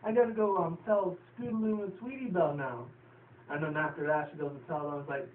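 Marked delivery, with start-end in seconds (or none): 0.0-2.9 high, eager filly voice; excited filly. Retold or imitated. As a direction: rush it out, thrilled. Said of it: "And Apple Bloom's like".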